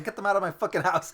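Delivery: mock angry yell, high and loud; hammed-up furious star throwing people out; Christian Bale. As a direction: yell it in sham outrage, close to laughing. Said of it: "He'd be yelling at his publicist".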